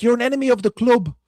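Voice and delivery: loud, high, outraged Scottish football fan; mock Scottish accent. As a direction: rant in a hammed-up Scottish accent. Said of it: "All I can do is Scottish".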